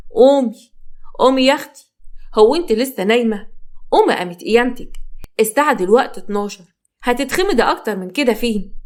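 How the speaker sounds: co-wife scolding the sleeping bride awake; harsh scolding. Acted. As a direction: bark her out of bed, mocking. Co-wife yanks her awake shouting.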